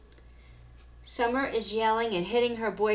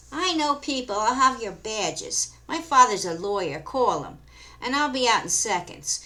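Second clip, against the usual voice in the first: entitled tantrum; 3 semitones higher, 4 dB louder than usual. Acted. Summer yelling at station.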